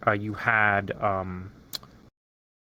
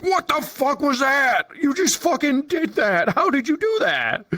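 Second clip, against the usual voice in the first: high stunned exclamations; shocked; 14 semitones higher than usual. Retold or imitated. Players stunned by a tracked drop kick, high shocked. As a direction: blurt it high in amazement.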